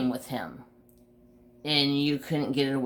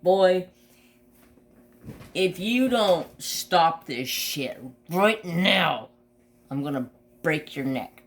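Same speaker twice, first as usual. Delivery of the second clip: stern warning; 3 semitones higher than usual. Retold or imitated. Dog biting his fist.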